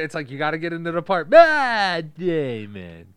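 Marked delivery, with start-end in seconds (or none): 1.3-3.1 loud, high mocking shout of the name; screaming Matt Damon in a goofy cartoon voice; Matt Damon puppet shout. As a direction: yell the name like a dumb puppet. Drawn-out impression of Matt Damon.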